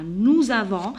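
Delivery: "Nous avons" with a linking z sound; "Nous avons", S linked to the A; liaison. Shown as a demonstration. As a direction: run "Nous avons" together as nou-za-von. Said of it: "mais il y a la liaison".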